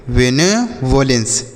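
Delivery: वेनेवोलेंस slowly as "ve-ne-vo-lens"; pronunciation demo. Shown as a demonstration. Teacher showing how to read a long word, वेनेवोलेंस slow and divided. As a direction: stretch वेनेवोलेंस out part by part. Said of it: "ऐसे पढ़ेंगे".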